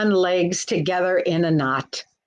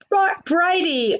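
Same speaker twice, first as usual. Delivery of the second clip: calling out; 9 semitones higher than usual. Acted. Calling to the hen by name.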